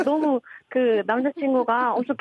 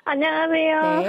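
slow, drawn-out sweet hello; cute coy greeting; 6 semitones higher, slower than usual. Real, not acted. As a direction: coo it slowly and sweetly. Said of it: "어, 매력 있네".

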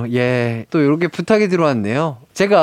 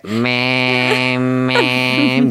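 imitating cicada; 6 semitones lower, much slower than usual. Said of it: "한껏 기대했는데".

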